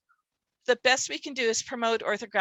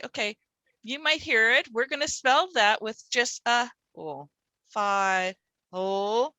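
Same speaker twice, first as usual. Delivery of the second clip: reassuring teacher. Retold or imitated. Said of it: "just say".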